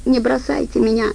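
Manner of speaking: first plea, still held back; pleading squeak. Acted. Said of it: "умоляюще попискивая". (умоляющий писк, тише)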